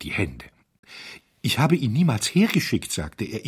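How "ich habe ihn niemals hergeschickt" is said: higher and louder, near panic; frantic. Acted. Panicked hotelier protests to the diners, higher and louder. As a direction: cry it out, wringing hands audibly.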